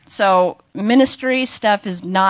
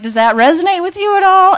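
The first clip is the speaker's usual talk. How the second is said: higher and louder, eager and anxious; nervous high question; 11 semitones higher, 6 dB louder than usual. Retold or imitated. Asking the tall man, a nervous high-pitched question. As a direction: ask it up high, nerves showing.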